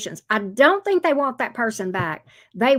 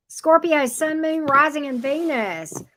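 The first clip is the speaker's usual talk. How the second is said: calling out; 5 semitones higher than usual. Real, not acted. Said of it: "calling out the sign".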